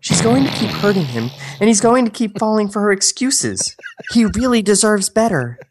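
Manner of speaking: man voicing Michelle, high; woman's voice. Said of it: "Your fucking voice".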